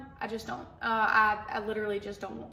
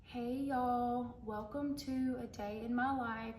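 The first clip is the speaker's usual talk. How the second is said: softer, slower, a hint of her early vlog intro; mock old video voice; 7 dB quieter, slower than usual. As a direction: lightly imitate your cringy old self. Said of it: "It was so cringy".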